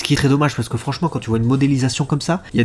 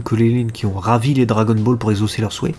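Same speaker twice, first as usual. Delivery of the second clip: talking with a blocked nose; stuffed-up nasal cold voice. Real, not acted. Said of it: "je parle avec le nez bouché". (voix du nez bouché, enrhumé)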